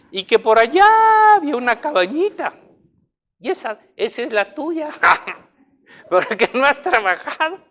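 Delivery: agudo, fuerte lamento imitado; llanto imitado. Retold or imitated. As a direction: imita a alguien que cuenta llorando. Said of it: "Y lo decía llorando". (llorando de imitación)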